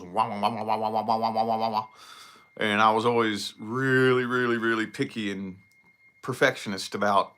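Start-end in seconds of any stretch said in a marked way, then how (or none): 0.0-1.9 out-of-tune string wah. Shown as a demonstration. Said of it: "it goes".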